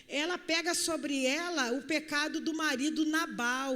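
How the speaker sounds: ordinary talk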